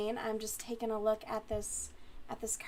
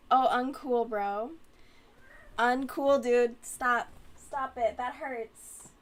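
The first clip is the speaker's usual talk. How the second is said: pained protest; 6 dB louder, slower than usual. Real, not acted. Cat clawing her back.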